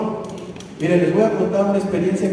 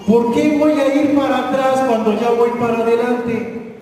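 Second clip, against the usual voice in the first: fervent preaching; 6 semitones higher, 4 dB louder than usual. Acted. Preaching at full force.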